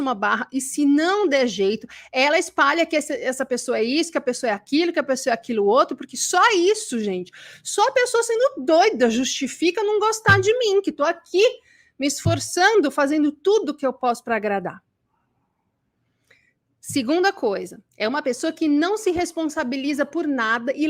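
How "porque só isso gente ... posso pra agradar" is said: higher-pitched, mock-indignant plea; indignant self-justification. Immature person justifying being disliked after trying to please, indignant. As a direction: protest as the wronged people-pleaser.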